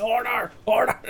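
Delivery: a high, whispered "Order, order"; whispered mock order. Speaker calling order, whispered mock call. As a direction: hiss the Speaker's call under a laugh. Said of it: "they're like".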